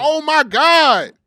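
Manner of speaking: high, loud, slow squeal; overwhelmed with excitement; excited. Real, not acted. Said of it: "I'm so excited".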